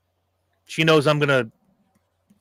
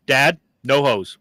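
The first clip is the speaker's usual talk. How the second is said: 1 slow firm daughter; slower than usual. Retold or imitated. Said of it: "that's the conversation".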